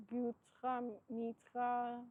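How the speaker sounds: slow drawn-out French accent; slow French-accented pronunciation of the name. Real, not acted. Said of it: "saying it in my French accent".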